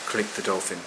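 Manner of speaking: ordinary delivery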